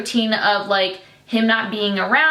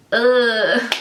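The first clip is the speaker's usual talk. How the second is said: frustrated ugh; exasperated groan. Real, not acted. Annoyed at herself for tearing up in the intro, frustrated groan. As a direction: groan at getting upset. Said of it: "I'm, like, getting emotional".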